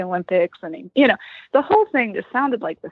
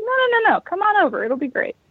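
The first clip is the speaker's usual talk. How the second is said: high insistent neighbor; 10 semitones higher, faster than usual. Retold or imitated.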